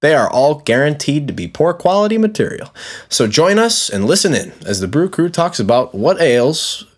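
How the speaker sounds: upbeat podcast host intro; bright radio-style show opener; intro read. Acted. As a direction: announce the show with host energy.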